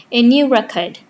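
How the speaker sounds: "record" as a noun, REC-ord; in "record", stress the first syllable. Shown as a demonstration. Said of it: "triggers first syllable stress".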